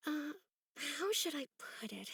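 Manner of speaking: whispered, searching for the words; half to herself, unsure how to say it; breathy whisper. Acted. Villager hesitating before confiding her loneliness, whispered.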